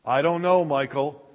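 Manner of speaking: doubtful father. Acted. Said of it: "the father said".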